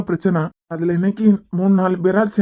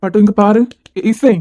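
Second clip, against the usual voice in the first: louder, pleading call to wake her; urgent calling; 4 dB louder than usual. Acted. Father calling his fainted daughter, loud and urgent.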